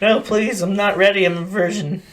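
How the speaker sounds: a touch of mock innocence; mock pleading. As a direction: beg off like a scared recruit, jokingly. Mock plea to the drill instructor.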